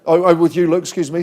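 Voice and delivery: muffled behind a face mask. Real, not acted. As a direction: talk through a mask. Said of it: "a bit tricky with the mask on".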